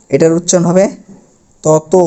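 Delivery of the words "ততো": তত said as "toto", ending in o; final o sound. Shown as a demonstration. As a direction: finish তত on a clear ও. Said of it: "এই যে ও কার হয়ে আসতেছে". (শেষে ও-কার দিয়ে: ততো)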